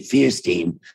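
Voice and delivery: Fierstein as FEER-steen; nephews' pronunciation. Shown as a demonstration. Telling how brother's sons say it, Fierstein pronounced FEER-steen. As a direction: start Fierstein like "fear", end like "seen". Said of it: "who now pronounce it".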